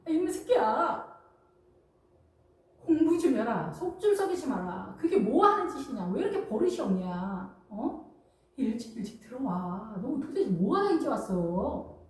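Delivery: string of lightly acted scoldings; nagging mother. Mother tells off a child who came home late, mock nagging. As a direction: imitate a mom piling up complaints at her child. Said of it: "엄마 입장에서는".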